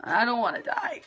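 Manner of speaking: laughing through the words. Real, not acted. To her viewers about the workouts, laughing. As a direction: laugh as you say it.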